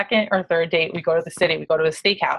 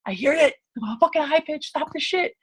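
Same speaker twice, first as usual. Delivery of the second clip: mock scolding; 8 semitones higher than usual. Retold supervisor telling husband off.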